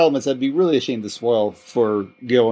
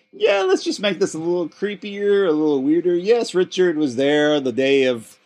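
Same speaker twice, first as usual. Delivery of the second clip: scheming writers; 4 semitones higher than usual. Retold or imitated. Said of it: "We're like".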